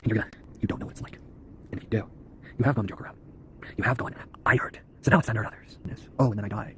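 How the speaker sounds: unvoiced, ominous whisper. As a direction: confide the dark thought in a hush. Dark monologue about hurting others.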